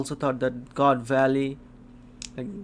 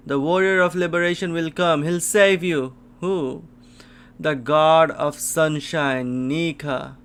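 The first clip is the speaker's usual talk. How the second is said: loud, hopeful proclamation; rousing proclamation; 5 dB louder than usual. Acted. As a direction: proclaim the coming saviour loudly. Voices promise of a liberator.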